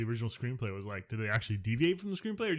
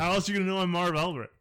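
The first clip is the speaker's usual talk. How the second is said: Marv Albert impression; 5 semitones higher, 4 dB louder than usual. Shown as a demonstration. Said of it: "your impersonation".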